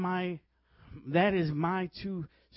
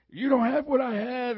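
raised, emphatic imitation of a minister; in-your-face preacher; 5 semitones higher than usual. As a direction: mimic a confrontational preacher. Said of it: "He sort of is in your face".

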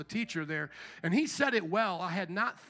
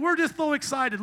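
hammed-up church enthusiasm, higher and louder; mock excitement; 6 semitones higher, 5 dB louder than usual. Preacher mocking church buzzword, mock gushing. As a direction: parody a gushing pastor.

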